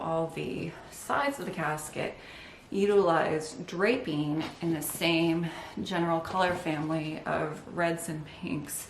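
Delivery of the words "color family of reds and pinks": breathing hard while talking. Real, not acted. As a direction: talk through heavy breaths. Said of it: "sorry, I'm breathing hard".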